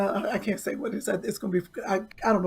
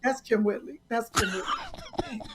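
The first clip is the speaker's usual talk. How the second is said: imitating fans; 2 semitones lower, 6 dB quieter, slower than usual. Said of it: "every cartoon people be like".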